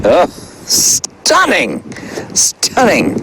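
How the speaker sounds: high, drawn-out mock gush. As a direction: gush over it like an influencer. Gushing over his own photo.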